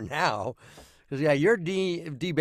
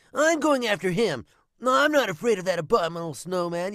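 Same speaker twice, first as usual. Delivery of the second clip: pitched-up, raised cartoon character voice; 6 semitones higher, 3 dB louder than usual. Showing the voice done for Spyro the Dragon: Spyro the Dragon voice. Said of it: "On the voice of Spyro the Dragon".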